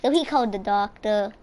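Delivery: livelier, lifted storytelling voice; playful story narration. Pretend. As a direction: tell the mishap like a made-up tale. Tells a made-up story over play.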